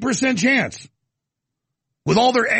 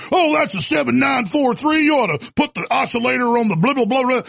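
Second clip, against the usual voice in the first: lightly voiced bluffer, pitched up; mock know-it-all; 4 semitones higher than usual. Playing a clueless walk-in advising diesel mechanics, mock know-it-all. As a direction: rattle off fake expertise.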